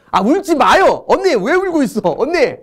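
high, swooping plea not to cry; mock alarmed consoling. Teacher pretends a student is crying from emotion, mock alarmed consoling.

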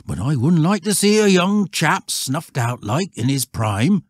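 a lightly voiced old shepherd, earnest warning. A narrator's reading. Shepherd warning Stanley off the field, lightly voiced countryman. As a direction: warn the boy plainly, countryman to youngster.

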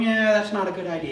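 casual, fast shrug of a no; mild disapproval. Retold or imitated. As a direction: toss it off lightly. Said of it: "he's not going".

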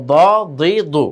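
দ, দি, দু with a thick, full d; thick, heavy sound. Shown as a demonstration. Teacher drilling pupils on দদ, thick sound. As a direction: keep each দ heavy, tongue against molars. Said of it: "দদ সবসময় মোটা".

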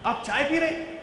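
Aap chai pee rahe asked high, stress on pee; a light, curious question about the tea; simple question. Shown as a demonstration. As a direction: pee lifted in a high asking tune. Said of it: "I said it three different ways".

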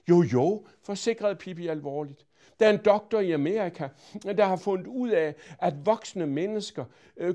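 put-on high, loud, cheeky girl voice; a bold, polite little girl lecturing; Pippi's voice. A narrator's reading. To Mrs Finkvist, cheeky little girl voice.

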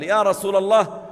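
high, loud and pressed, chest tight with worry; distressed plea. Acted. Abu Bakr pleads loudly to the Prophet, distressed. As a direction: cry out for help to the Prophet. ضيق صدره.

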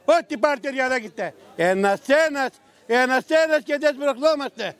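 high, carrying street-seller cry; market vendor calling out. Shown as a demonstration. Vendor shows the host how he calls customers, high street cry. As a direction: hawk your goods to passing shoppers. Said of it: "Για φώναξε λίγο να σε ακούσω".

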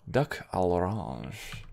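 slow, badly faked French accent; worst French accent. Shown as a demonstration. Player reads out a menu dish in a bad French accent. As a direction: draw it out in a clumsy French accent. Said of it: "went for my worst French accent".

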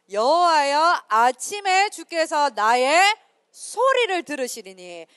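loud, slow, solemn reading of the verse; scripture recitation. Acted. Pastor leading youth in reciting a psalm, loud and slow. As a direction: proclaim each word slowly for the room.

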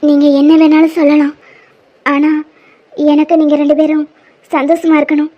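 loud, insistent plea to the couple. Acted. Telling the married couple to fix their lives, loud and firm. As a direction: push it across firmly, voice up. Heated reply in quarrel.

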